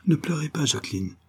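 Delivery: fervent vow, starting high, sinking at the end; loving. A narrator's reading. Jacques vows to bring back Jacqueline's father, lovingly fervent. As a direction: console her with mildly impassioned devotion. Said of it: "d'une voix où se révélait l'amour".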